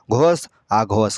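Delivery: slow and deliberate, each word drawn out; slow, spelled-out repeat. Shown as a demonstration. Teacher repeats the terms slowly for pupils. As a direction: let pupils catch every syllable, slowly. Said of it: "teacher repeating terms for pupils".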